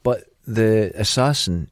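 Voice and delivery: normal talking voice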